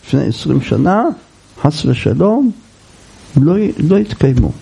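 low, understated fearful musing; imitated worry. Jacob fears his merit ran out, understated worry. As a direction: voice his doubts in a low register, only mildly afraid. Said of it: "הוא פחד".

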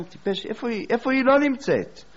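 high, rising mock rebuke; mock scolding. The teacher chiding the doubter as a fool, high and rising. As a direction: chide the fool.

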